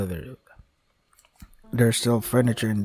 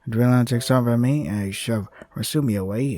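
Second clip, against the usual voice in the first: steady dramatic reading; story narration. A narrator's reading. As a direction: read it like a novel. Reads visual novel narration.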